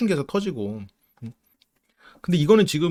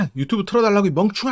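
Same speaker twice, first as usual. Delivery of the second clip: retold yell; 5 semitones higher, faster than usual. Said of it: "하면서 막 소리를 막 지르는 거야".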